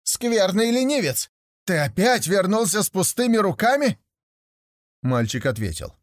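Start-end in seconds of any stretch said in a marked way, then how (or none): 0.0-4.0 a furious mother's rebuke; angry mother. A narrator's reading. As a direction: berate a lazy son. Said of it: "сказала сердито".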